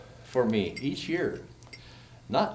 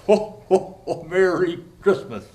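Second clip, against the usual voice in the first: Santa ho ho ho; 3 semitones higher, 5 dB louder than usual. Acted. Santa's signature greeting.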